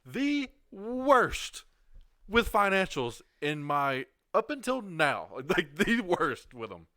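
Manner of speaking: high, loud, laughing confession; rueful laughing emphasis on the worst; laughing at himself. Real, not acted. Confessing money mistakes, laughing.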